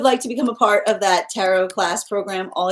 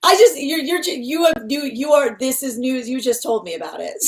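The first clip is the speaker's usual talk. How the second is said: laughing disbelief; 6 semitones higher, 4 dB louder than usual. Real, not acted. Stunned by a viewer's news.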